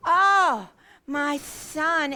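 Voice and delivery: loud, drawn-out wail of dismay; anguished mother. Acted. Mother learning her son is in the well, anguished. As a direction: wail it slowly with swooping stress.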